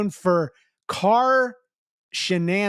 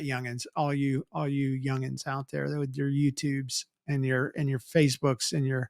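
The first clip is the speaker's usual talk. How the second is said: mock grumpy elder; 6 semitones lower, 5 dB quieter than usual. Mock old-man scolding.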